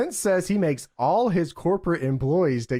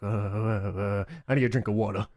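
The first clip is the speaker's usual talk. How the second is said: stalling witness; 6 semitones lower, 5 dB quieter than usual. Retold or imitated. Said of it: "And he's like".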